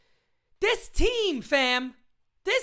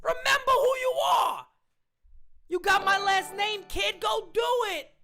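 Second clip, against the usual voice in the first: Lion King father. Retold or imitated. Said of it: "like the Lion King".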